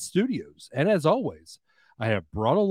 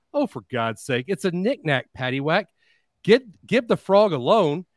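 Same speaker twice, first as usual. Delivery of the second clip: exasperated manager punchline; 3 semitones higher, 4 dB louder than usual. Acted.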